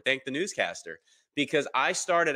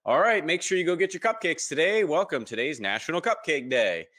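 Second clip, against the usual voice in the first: lightly voiced TV newscaster, pitched up then settling; a hint of upbeat news announcer; 6 semitones higher than usual. Newscaster announcing National Cupcake Day on TV, lightly imitated announcer voice. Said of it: "but the newscaster said".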